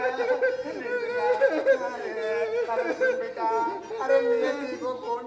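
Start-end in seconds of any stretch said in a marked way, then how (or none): 0.0-3.5 alarmed soothing. Acted. Father soothing crying son.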